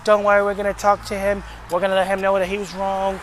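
lightly voiced soothing staffer; mock placating. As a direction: imitate someone smoothing over a complaint. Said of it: "y'all quiet people on".

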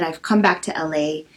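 usual speaking voice

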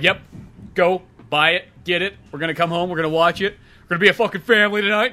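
loud, hyped-up family pep call; rally the house for movie night; excited rally. Retold or imitated. Fan hyping family for movie night, loud and excited.

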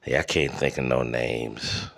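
ordinary talk

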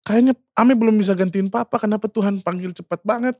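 high-pitched, mildly plaintive question; retold lament. Asking why God called papa so soon, mild high lament. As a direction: quote a pained plea, understated. Repeated retold grief at father's death.

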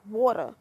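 water as wawta, r dropped; water ending in a loose uh; dialect water. Acted. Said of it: "Say it again".

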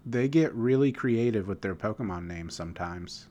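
projected voice for the hard of hearing; speaking up. Shown as a demonstration. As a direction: raise the volume to be heard. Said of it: "Is that better?".

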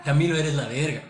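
praising tone. Shown as a demonstration. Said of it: "es bueno".

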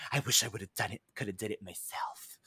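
low, fading to a whisper; imitating evil Leo. Evil Leo wishing he'd done it, sinking to a whisper. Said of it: "evil Leo was like".

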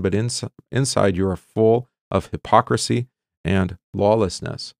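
measured, solemn reading of Hosea to the class; scripture reading. Acted. Teacher reads Hosea to the class, solemn reading voice. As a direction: read the prophet's words aloud with weight.

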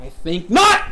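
put-on loud, rising German movie-villain accent. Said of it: "Sonic is now doing a German accent".

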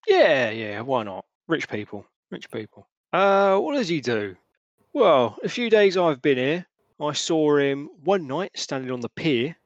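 lightly voiced sly old local, gossiping and dismissive; a hint of a knowing dockside gossip; Hamish. Hamish telling the players about Balthazar, lightly voiced and knowing.

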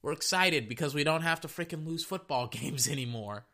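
high, giddy bragging players; high happy-camper mock voice; gleeful defense voice. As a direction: voice the smiling defense, high and pleased with itself. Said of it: "is saying".

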